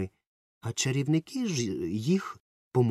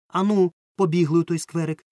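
much higher and louder, urging a friend to run; excited shout; 7 semitones higher, 8 dB louder than usual. Acted. Romka urging his friend to run to the park, loud and excited. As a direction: shout it out, fired up to go now. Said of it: "вигукнув Ромка".

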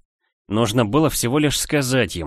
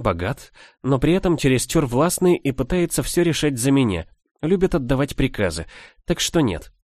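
higher, mock-thoughtful teasing; playful teasing; 4 semitones higher than usual. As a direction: pretend to weigh it up, playfully. Arda mock-considers, teasing Leo.

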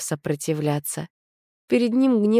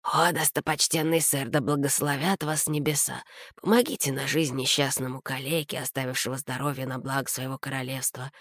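much softer, wheedling beggar's whine; fawning beggar voice; 2 semitones lower, 6 dB quieter than usual. A narrator's reading. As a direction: grovel for a coin. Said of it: "противным заискивающим голосом". (противный заискивающий голос нищего, намного тише)

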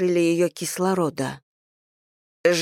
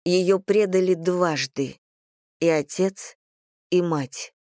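ordinary delivery, nothing marked

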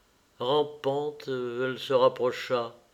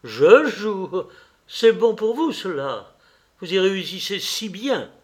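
louder, biting sarcasm; bitter retort; 7 semitones higher, 7 dB louder than usual. Acted. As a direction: throw it back bitterly, with swooping stress. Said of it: "répondit-il amèrement". (réplique amère et cinglante)

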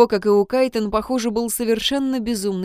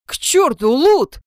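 loud, higher angry bark; harsh barking commands; 6 semitones higher, 7 dB louder, slower than usual. A narrator's reading. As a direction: bark the name at him. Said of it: "рявкнул он".

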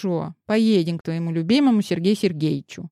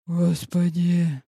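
frightened gasp; much slower than usual. A narrator's reading. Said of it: "выдохнул перепуганный завхоз".

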